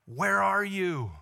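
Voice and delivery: slow, drawn-out call from God. Acted. God calls to Adam in the garden, slow searching call. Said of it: "the Lord God called to the man".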